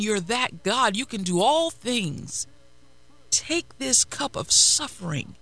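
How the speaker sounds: a fervent, pleading prayer; Jesus praying in anguish. Acted. Preacher voicing Jesus in the garden, pleading. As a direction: beg God to take the cup away.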